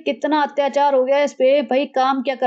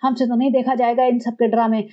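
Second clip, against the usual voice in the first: lower, aggrieved grumble; mock complaining mother-in-law; 3 semitones lower than usual. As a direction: sulk over the ungrateful son. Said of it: "सासू माँ बोल रही होंगी". (कम सुर में शिकायती सास)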